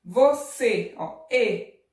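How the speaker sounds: Você with loud closed final ê, then ê alone. Shown as a demonstration. Teacher isolating the vowel, closed ê in Você. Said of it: "é um som mais fechado".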